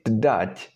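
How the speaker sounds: tdať with a clear D; D replacing R. Shown as a demonstration. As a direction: start from T plus D in tdať. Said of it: "slur the pronunciation a little bit".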